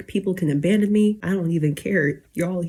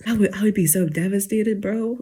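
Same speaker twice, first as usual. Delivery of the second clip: whispered, choked up; tearful whisper; 2 semitones higher than usual. Real, not acted. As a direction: whisper it close to crying. Tearful thought of God's rejection.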